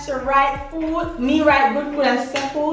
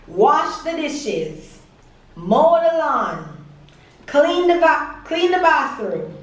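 slow listing; slower than usual. Acted. Listing chores slowly, quiz style.

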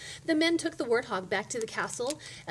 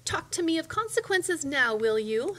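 loud, raised taunt; taunting witch; 6 semitones higher, 5 dB louder than usual. A narrator's reading. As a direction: crow over the cursed princess. Witch gloats over cursed princess.

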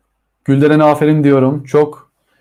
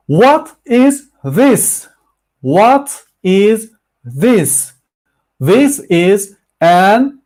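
slow, exaggerated question and answer; slow teaching demo; 4 semitones higher, much slower than usual. Shown as a demonstration. Teacher drilling students on "What is this?", slow and exaggerated. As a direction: spell it out word by word for beginners. Models English answers for class.

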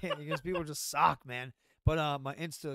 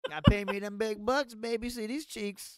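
mock seductive; 5 semitones higher, 6 dB louder than usual. Joking about his OnlyFans.

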